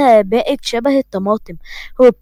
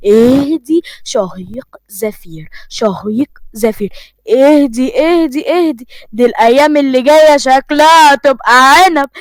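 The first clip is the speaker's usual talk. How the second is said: soothing. Acted. عمر يهدّي خطيبته المتوترة.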